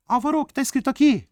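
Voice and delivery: high, rapid put-on pupil; quick, squeaky imitation of a pupil; mock student voice. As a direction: fire off a student's question in falsetto. Teacher voices a student's question.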